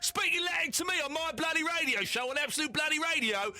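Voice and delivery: indignant telling-off; mock outrage. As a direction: play up the comic threat. Mock outrage at caller's Latin.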